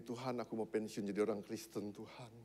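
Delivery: low, hushed mock resignation; weary believer. Worn-out Christian telling God he wants to retire, weary and quiet. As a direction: voice a worn-out prayer, sinking away.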